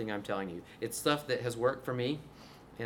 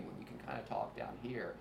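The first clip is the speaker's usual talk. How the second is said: dropped, softer voice with popping; talking down here; 2 semitones lower, 9 dB quieter than usual. Shown as a demonstration. Teacher mocking guys' reasoning, low creaky voice. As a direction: let it fall low into some fry. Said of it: "it sounds a little lower".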